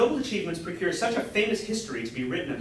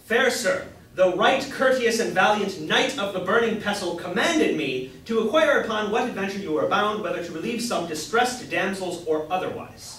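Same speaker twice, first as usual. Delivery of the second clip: knightly courtesy demo. Shown as a demonstration. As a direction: show the courtly way to hail a knight.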